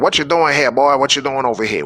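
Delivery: put-on a teen being questioned by a British cop; British accent. Police stopping teenagers, hinted British accent. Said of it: "with a British accent".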